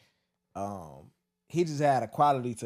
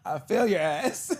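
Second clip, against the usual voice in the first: hammy stern teacher threat; 2 semitones higher, slower than usual. Retold or imitated. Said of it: "He gonna tell you that".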